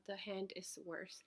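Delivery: sudden whispered aside. Real, not acted. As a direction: drop to a whisper for these words. Aside about the worse hand.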